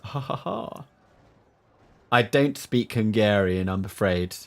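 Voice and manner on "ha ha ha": laughing. Real, not acted. Laughing at chat comment.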